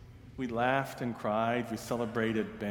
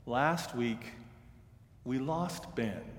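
teary. Retold or imitated. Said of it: "Her voice was teary".

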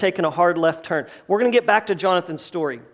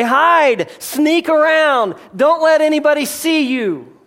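louder and higher, pushy insistence; emphatic louder line; 5 semitones higher, 3 dB louder, slower than usual. Acted. Preacher voicing what human eyes say, emphatic. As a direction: press it like fearful advice.

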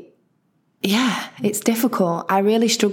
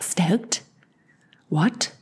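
quiet, puzzled questioning; hushed mock confusion; baffled non-American listener; 3 dB quieter than usual. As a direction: echo the word softly in bafflement. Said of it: "everyone who's listening to this who's not American will be like".

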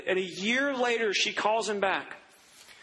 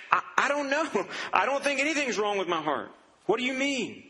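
higher, confused protest; bewildered patient; 5 semitones higher than usual. Retold or imitated. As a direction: sound thrown by the question. Confused patient answers the tech.

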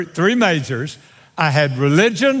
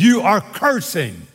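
God's rebuke; 6 semitones lower than usual. Acted. God looks down on man's cursing, solemn rebuke. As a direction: rebuke firmly, then drop down on the last words. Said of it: "God looks down and says".

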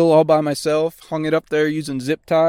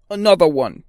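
mock DJ tag; 3 semitones higher, 4 dB louder than usual. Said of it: "I'm gonna start doing that".

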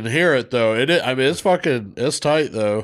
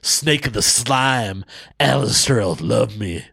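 Def Jam poetry slam. Acted. Co-host reciting a crude poem for listeners, Def Jam style. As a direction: deliver it like a Def Comedy slam act. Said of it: "I'm gonna do it like a fucking, a Def Jam".

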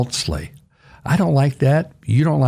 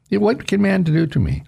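much higher, ringing rhetorical question; defiant repeat; 9 semitones higher than usual. Acted. Preacher repeats David's defiant question to congregation, higher and bolder. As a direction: fling the question out in triumph.

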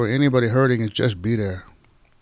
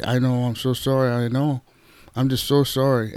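gentle consoling. Shown as a demonstration. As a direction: say it gently, like holding their hand. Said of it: "you just say".

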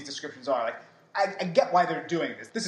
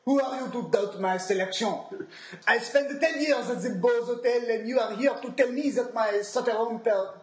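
sommelier voice; 3 semitones higher than usual. Pretend. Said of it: "sommelier voice".

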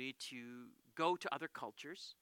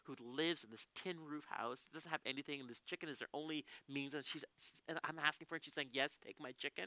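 soft, moved realization; heartfelt pity; 6 dB quieter than usual. Retold or imitated. Pastor realizes the poor woman's generosity, touched. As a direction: let it sink in, speaking softly. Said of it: "My heart just like".

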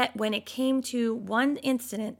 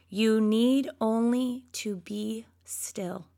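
hushed whisper; slower than usual. Acted. Moses calming the people, whispered.

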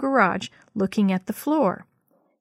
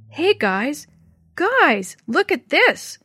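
excited call; 7 semitones higher, 4 dB louder, much slower than usual. A narrator's reading. Calling others to look.

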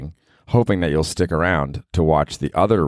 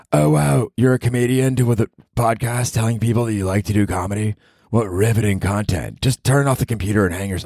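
put-on high, sarcastic girlfriend voice; mock him from way up high; fake mean girlfriend; 6 semitones higher than usual. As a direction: girlfriend mocking his comedy podcast, high and sneering. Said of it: "a fake mean girlfriend voice".

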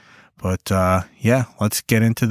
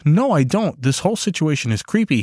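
huffy refusal; 3 semitones higher than usual. Acted. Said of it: "he huffed".

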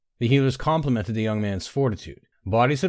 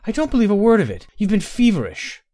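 much higher, louder, tearful denial; sobbing denial; 11 semitones higher, 6 dB louder than usual. A narrator's reading. Inara tearfully denying Tay's confession, much higher. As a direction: refuse to believe him through tears. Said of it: "Inara sobbed".

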